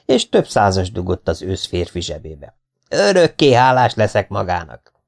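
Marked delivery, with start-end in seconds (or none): 2.9-4.9 mildly raised, effusive gratitude; acted gushing thanks; grateful cry. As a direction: declare thanks with moderate force. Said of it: "kiáltotta Szenes Iván".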